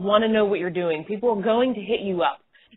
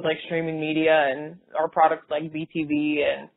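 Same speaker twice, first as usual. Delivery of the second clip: low, dull, unexcited pitch; bored and flat; 4 semitones lower than usual. Shown as a demonstration. Recruiter showing a dull sales call, unexcited. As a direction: sound like you couldn't care less. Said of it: "imagine if I called and I talked like this".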